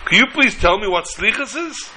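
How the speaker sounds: acted appeal for an explanation; pleading question. Guest turns to the husband, asking in puzzled appeal.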